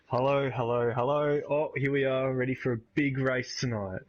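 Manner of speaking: usual speaking voice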